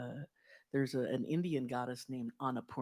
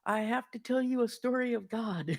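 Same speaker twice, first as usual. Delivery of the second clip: high, eager and louder retelling of the man; bursting to tell his story, pitched up; excited homeless man; 9 semitones higher, 4 dB louder, slower than usual. Retold or imitated. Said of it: "And he goes".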